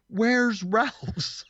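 imitating her yelling. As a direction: play the lost old driver yelling. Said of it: "she starts yelling at me".

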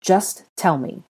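slow plea leaping into a high, loud question; insistent, accusing interrogation; demanding. A narrator's reading. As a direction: demand an answer, voice shooting up. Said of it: "Harry demanded".

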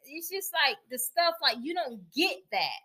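soft, holding back tears; getting emotional. Real, not acted. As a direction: speak quietly, on the verge of crying. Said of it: "I was getting a little emotional".

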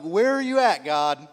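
pleading furious shout at God; angry cry to God. Retold or imitated. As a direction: throw the question up at God in anger. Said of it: "Just angry".

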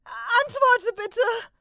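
very high, loud, slow pleading cry; worried apprentice begging his trainer to answer; desperate plea. Acted. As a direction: beg into the silence, close to panic.

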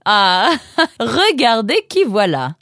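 high, drawn-out joyful welcome; a mother's gleeful greeting; delighted motherly cry. Acted. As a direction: cry out with a laugh in it. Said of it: "s'écria sa maman".

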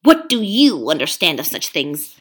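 loud, pushy ape lecturing the beasts; a sly ape bullying the crowd; scheming ape. Acted. Ape haranguing the gathered beasts, loud and pushy. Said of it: "he hissed".

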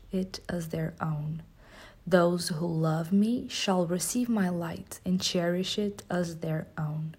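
hushed, slow affirmation recital; slow whispered affirmations. Acted.

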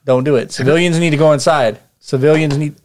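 a trooper pleading not to shoot; alarmed trooper. Acted. GM voices panicked trooper.

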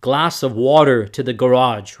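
American English, "garage" stressed on the second syllable; American accent. Shown as a demonstration. Contrasting with the British version, American accent. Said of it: "There's a difference there".

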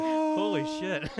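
slow, high stunned awe; awed exclamation. Retold or imitated. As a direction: gasp it out in awe. Retelling walking into bar.

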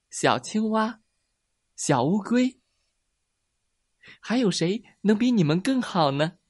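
high-pitched mouse, fond and delighted; proudly name your friends in a small high voice; happy little mouse. Acted. (小老鼠开心地尖声说)

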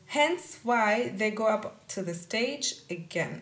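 slow line landing on "again"; stress on again. Real, not acted. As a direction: draw the sentence out and lean on "again". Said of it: "die Betonung liegt auf in-, again".

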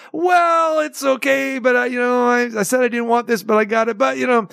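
quoting the wife. Retold or imitated. Quoting the couple's hesitant reply.

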